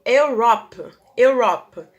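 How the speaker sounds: "Europe" said twice, clear and loud, the "Eu" like "you"; teacher drilling Europe; repeating model word. Shown as a demonstration. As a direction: drill "Europe" with a y-sound start. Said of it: "ele tem um som de consoante".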